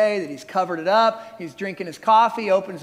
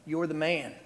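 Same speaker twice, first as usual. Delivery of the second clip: low-key, much softer verdict; hushed, grave confrontation; quiet accusation; 4 semitones lower, 9 dB quieter than usual. Acted. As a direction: deliver the accusation softly and soberly. Nathan quietly confronts the king.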